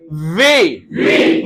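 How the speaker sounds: वे with lips rounded, w not v; वे called out, lips rounding into the w; W sound. Shown as a demonstration. Teacher models वे for the class with rounded lips. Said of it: "मखरज सुन लें".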